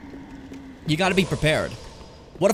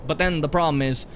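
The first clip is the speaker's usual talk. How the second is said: usual speaking voice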